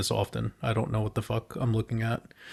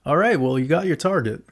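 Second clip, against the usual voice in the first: higher, louder, thrilled; excited; 6 semitones higher, 6 dB louder than usual. Real, not acted. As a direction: cheer the win. Excited at the price target.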